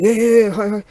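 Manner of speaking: a bright eager greeting as if in Japanese; eager reply in Japanese. Retold or imitated. Answering the friendly chap at the auction, eager. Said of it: "in Japanese".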